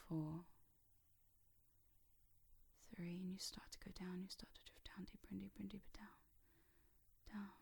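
soft, hushed drift downwards; hypnotic countdown. Real, not acted.

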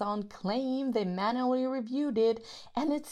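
loud, heated rant; angry rant. Acted. Venting to the partner about the strike, loud and heated. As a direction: vent the fury at the website.

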